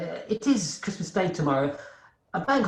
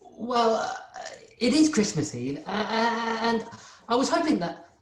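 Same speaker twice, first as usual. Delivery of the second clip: nervous hesitant request. Acted. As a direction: stumble timidly towards asking the boss. Bob nervously asks boss for leave.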